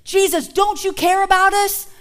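anxious cry to wake Jesus; pleading disciples. Retold or imitated. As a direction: beg a sleeping teacher. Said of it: "This is how they felt".

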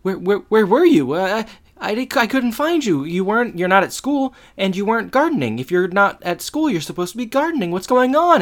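a playful panic, tripping over words; mock panicked. The speaker panicking at Feeney in the backyard, mock frantic.

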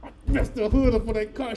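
retold whimper of confession; hammed-up tearful admission; mock near-crying. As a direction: blurt it as if holding back tears. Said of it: "I was trying not to cry".

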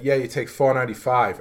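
imitating a dad's Boston accent; Boston accent with dropped R's, imperfectly done; thick Boston accent. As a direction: give directions as a thick-accented Boston dad. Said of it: "that one I did there was not good".

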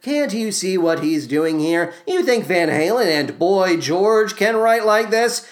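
ordinary talk, nothing marked

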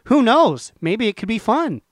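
a hint of a wistful ghost; lightly voiced ghost. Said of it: "a ghostly version of you".

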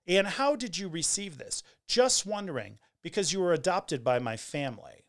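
mildly suspicious retold query; hint of animosity. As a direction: read it aloud with a slight challenge. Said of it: "there's probably some animosity in there".

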